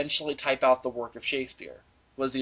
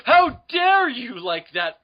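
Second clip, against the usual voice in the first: mock outrage; 3 dB louder than usual. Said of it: "it's like".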